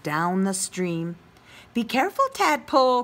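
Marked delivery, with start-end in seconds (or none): 1.7-3.0 crying out. Acted. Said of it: "cried Mommy Frog".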